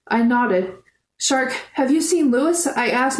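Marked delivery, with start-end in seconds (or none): 1.2-2.7 high, anxious question; high and shrill. Acted. Girl asking a friend about her missing brother, high and shrill. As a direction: panic rising in a tight high voice. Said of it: "my voice high and shrill".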